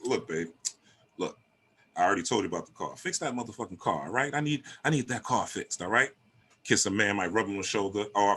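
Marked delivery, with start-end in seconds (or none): 0.0-6.1 soft, sweet request with a curse word; cursing but nice. Retold or imitated. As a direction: ask nicely even while swearing. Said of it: "say it nice".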